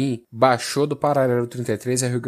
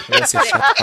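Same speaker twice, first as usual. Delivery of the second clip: high shrieking laugh into words; laughing loudly; 3 dB louder than usual. Real, not acted. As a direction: burst out laughing, then say it. Cracking up at own joke.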